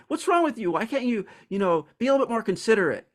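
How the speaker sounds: exasperated. Retold or imitated. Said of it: "I'd be like".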